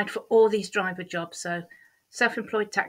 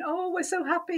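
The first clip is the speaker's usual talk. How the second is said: teary joy; 10 semitones higher than usual. Retold or imitated. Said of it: "both sort of almost crying over the phone".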